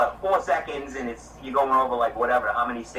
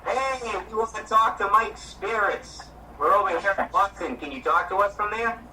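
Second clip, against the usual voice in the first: calling out to spirits; 5 semitones higher than usual. Real, not acted.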